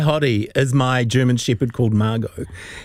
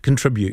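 "contribute" as con-TRIB-ute; "contribute" with the weight in the middle; stress on second syllable; faster than usual. Shown as a demonstration. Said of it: "depends where you put the emphasis".

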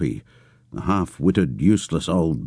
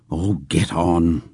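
mock anger; slower than usual. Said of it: "Pam, with mock anger".

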